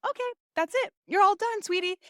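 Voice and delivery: high, sugary doctor imitation; sweet doctor. Imitates doctor announcing it's over.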